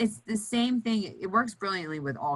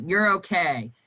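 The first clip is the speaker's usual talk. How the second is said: curt reassurance; 4 dB louder than usual. Shown as a demonstration. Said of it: "you can't be like".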